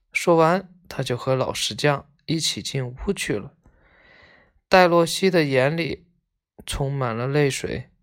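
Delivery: measured, expressive storybook reading; story narration. A narrator's reading. Reading a tale of schoolboys visiting a sick friend, expressive narration. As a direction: read the tale aloud with feeling.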